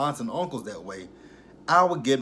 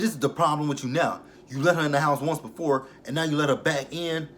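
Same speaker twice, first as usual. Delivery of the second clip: higher, louder scolding quote; raised-voice mock scolding; retold telling-off; 4 semitones higher, 5 dB louder than usual. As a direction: act out him going off on her. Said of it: "he's just going off on Miss Nancy".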